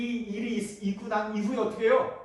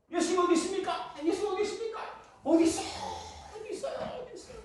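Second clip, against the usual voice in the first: calling out; 10 semitones higher, faster than usual. Retold or imitated. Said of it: "사방 하늘을 보고 막 소리 질러요".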